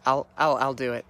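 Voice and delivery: reluctant, halting agreement; acted half-hearted consent; waffling. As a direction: give in grudgingly, stumbling over the start. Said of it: "kind of waffles and finally decides".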